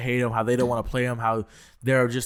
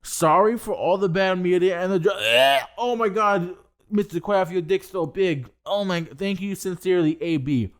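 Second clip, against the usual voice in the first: mocking high groveling apology voice with stammered uhs; high, put-on voice of a player grovelling to his boss; Antonio Brown apology; 5 semitones higher than usual. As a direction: ham up a whiny, fake-sincere athlete begging the owner. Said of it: "he goes on his Instagram three days ago".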